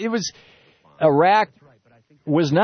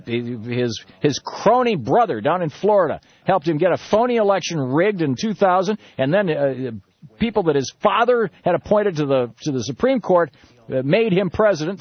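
raised, indignant mock liberator; mock invader pitch; 6 semitones higher than usual. Pretend invader lectures Americans, raised and indignant. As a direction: preach liberation, rising higher.

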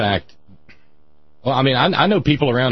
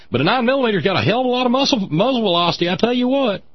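gun store guy talk. Retold or imitated. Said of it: "they talk like that".

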